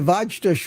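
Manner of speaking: Vajtush said as VAHJ-tush; old mistaken pronunciation. Retold or imitated. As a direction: put a J sound in the middle of Vajtush. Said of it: "I've been calling you".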